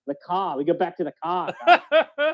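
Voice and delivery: laughing, hammed-up Boston accent, last word jumping high; mock Boston accent. Host attempting a Boston line, laughing, hammed-up accent. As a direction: fumble a joking Boston accent, cracking up at the end. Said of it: "I can't think of Boston".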